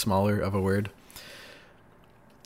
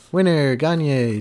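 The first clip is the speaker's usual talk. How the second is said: game show announcer; 4 semitones higher, 4 dB louder, much slower than usual. Pretend. Game show winner call.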